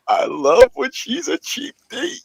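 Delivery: quoting Negan. Retold or imitated. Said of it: "He's like".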